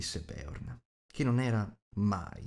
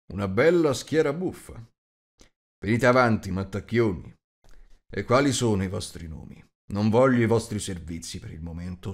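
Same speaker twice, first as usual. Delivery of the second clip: louder, brusque host cutting them off; a big man with no patience, louder; 4 dB louder than usual. Acted. Host interrupting the bowing dwarves, louder and brusque.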